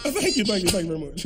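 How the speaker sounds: showman thanks. Pretend. Mock bow after burping.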